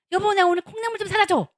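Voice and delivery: clear, loud request while looking him in the eye; wife gets husband's full attention, calls out loud and clear; calling to husband face to face. Shown as a demonstration. 남편 눈을 보고 크게 또박또박 부탁. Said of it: "이렇게 얘기해야 돼요".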